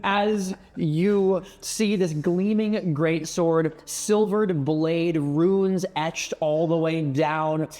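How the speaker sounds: slow, savoring game master description; scene narration. Acted. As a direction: paint the scene slowly. GM describes the sword.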